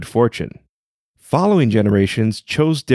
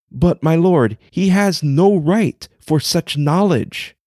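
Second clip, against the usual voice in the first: much higher, a desperate plea to the lord; pleading dragon; 4 semitones higher than usual. Acted. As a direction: beg the emperor anxiously.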